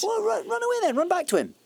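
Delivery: high, loud, bitter cry telling her to run; furious shout. Acted. Man shouting at the woman he loves to run back to her husband. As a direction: fling it at her, fury breaking loose.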